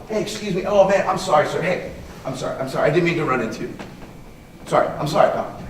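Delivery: soft, quick apology, mostly hushed; apologetic. Shown as a demonstration. Teacher shows the apologetic way after a shoulder bump, soft. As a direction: apologise fast and softly to calm him down. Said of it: "I'm not gonna be like".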